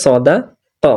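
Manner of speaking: "সদা ক" with a small jolt, then "ক" set apart; "সদা ... ক", a break before the last syllable; light jolt. Shown as a demonstration. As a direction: give "সদা ক" a light jerk. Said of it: "হালকা ঝাটকা মেরে পড়তে হবে".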